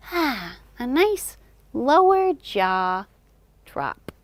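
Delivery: stretched slow lesson phrase; slow and drawn out. Shown as a demonstration. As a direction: draw it out slowly. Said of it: "make sure you've got a nice".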